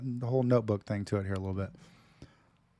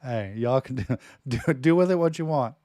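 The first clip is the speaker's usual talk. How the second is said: usual speaking voice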